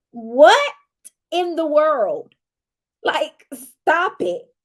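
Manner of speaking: loud then slow "stop it"; slowed, exasperated reaction; mock disbelief. Real, not acted. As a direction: pull back in exasperated disbelief.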